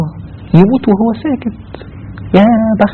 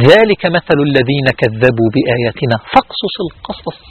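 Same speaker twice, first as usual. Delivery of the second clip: slow recitation; 2 semitones lower than usual. Acted. Quran verse recited.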